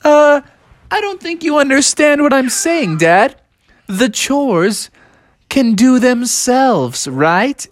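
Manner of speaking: very high, slow persuading; smooth-talking Bubby. Acted. Bubby tries to sweet-talk Dad, very high and slow. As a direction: pitch way up and drawl the pitch. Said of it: "And Bubby was like".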